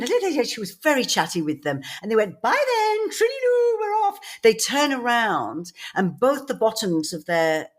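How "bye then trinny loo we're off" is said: high, sing-song camp goodbye; camp farewell. Retold or imitated. Visitors in leather chaps bid mum a camp goodbye. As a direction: trill it like the flamboyant visitors. Gay men saying goodbye campily.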